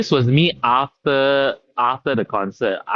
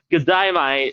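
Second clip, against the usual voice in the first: mock Australian; 4 semitones higher, slower than usual. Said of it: "Say it again?".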